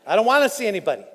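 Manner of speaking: says it through a laugh; amused, dismissive laugh while speaking; laughing refusal. Retold or imitated. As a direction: laugh off the idea. Retelling his refusal, laughing.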